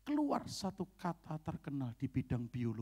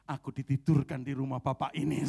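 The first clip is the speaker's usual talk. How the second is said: loud declaration; 6 dB louder than usual. Retold or imitated. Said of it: "Dengan lantang saya bilang".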